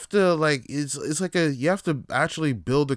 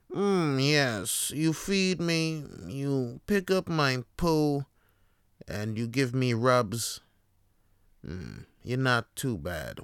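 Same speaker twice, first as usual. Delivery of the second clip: snooty cat voice. Acted. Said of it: "I'm a cat".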